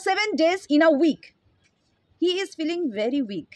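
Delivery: very slow, word by word dictation; slow example sentence. Shown as a demonstration. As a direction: read each word slowly so students can write. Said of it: "আহ, মনে করো".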